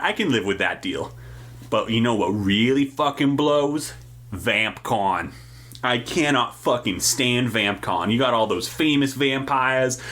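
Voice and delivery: world-weary working vampire, griping; jaded vampire Dave. Acted. Vampire Dave venting about his lousy life, jaded. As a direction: complain like a fed-up city vampire with a day job.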